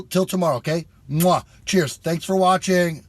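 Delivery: loud, high upbeat farewell; excited outro. Real, not acted. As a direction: sign off with big energy. Energetic outro to viewers.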